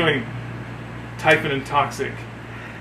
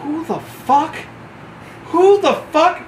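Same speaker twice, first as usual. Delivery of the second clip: sergeant major's angry echo; 9 semitones higher, slower than usual. Retold or imitated. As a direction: throw the question back at him, seething. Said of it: "Sergeant Major Booker goes".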